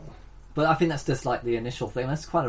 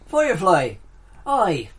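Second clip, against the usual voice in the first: louder, higher put-on Scottish-style burr; put-on accent; 7 semitones higher, 6 dB louder, slower than usual. Fan announcing the show title in a put-on accent. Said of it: "I don't know why I'm doing that accent".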